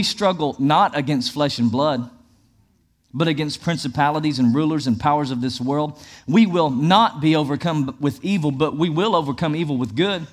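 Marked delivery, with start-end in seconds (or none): 6.3-8.5 "not" firmly punched; stress on NOT. Shown as a demonstration. Pastor declaring scripture, emphatic "not". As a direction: set "not" apart with force. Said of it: "emphasize the word".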